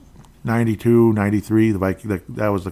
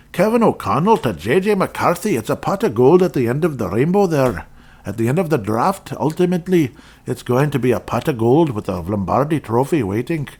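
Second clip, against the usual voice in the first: lightly put-on Irish accent, pitched higher; a playful, hammed-up stab at an Irish accent; 4 semitones higher than usual. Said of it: "hope you didn't mind my Irish accent there".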